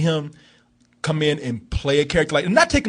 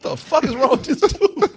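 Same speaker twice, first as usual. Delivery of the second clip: laughing high disbelief; 8 semitones higher than usual. Retold or imitated. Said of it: "It's like".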